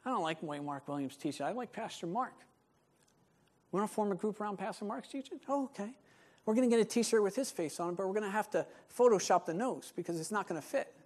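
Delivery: hushed, quick mock gossip; rival clique member. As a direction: mutter like you're recruiting a rival clique. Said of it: "they're like".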